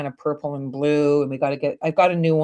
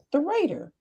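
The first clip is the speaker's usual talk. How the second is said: imitating mom; 11 semitones higher, 4 dB quieter than usual. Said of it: "She's like".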